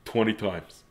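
understated storybook fatigue; tired. Acted. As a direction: let the energy drop as if worn out. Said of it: "said Bugley tiredly".

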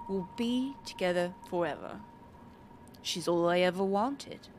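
murmured lines of a man devoted to his monster love; creepy man voice. Acted. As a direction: read it like an obsessed man confiding, low and soft. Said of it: "I'm trying to do an accent for this man".

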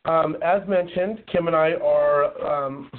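slightly rusty, under the weather. Real, not acted. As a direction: talk through a sick, rusty voice. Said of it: "please excuse my voice".

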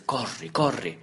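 loud, high urgent cry; urgent command. A narrator's reading. Father to son as they flee, urgent cry. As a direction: hurry the boy along. Urging flight.

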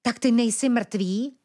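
be amazed he's alive; a girl's voice full of wonder; surprised. Acted. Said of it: "zamrkala překvapením".

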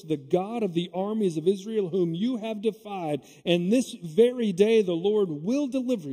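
bold, declaiming Bible reading; preacher reading David's challenge with force; scripture reading. Acted. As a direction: proclaim David's defiance to the giant. Reads David's defiant words from Scripture.

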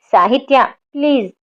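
urgent plea called after her; anxiously calling out please. A narrator's reading. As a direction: call her back before she hangs up. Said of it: "అతను ఆతృతగా పిలుస్తూ".

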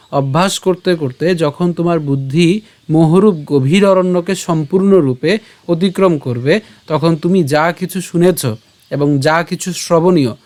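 slow, measured read-aloud; translation reading. A narrator's reading. Teacher reading the verse's meaning to students, measured slow reading. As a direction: read it out phrase by phrase, slowly.

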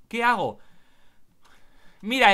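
ordinary talk

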